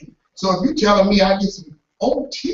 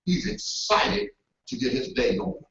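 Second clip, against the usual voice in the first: admiring aside; 3 semitones higher, 10 dB quieter than usual. Retold or imitated. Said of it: "you're like".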